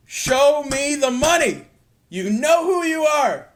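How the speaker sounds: high, loud celebratory holler; triumphant yell. Real, not acted. Gambler demanding his winnings, triumphant yell. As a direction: holler it like a winner collecting.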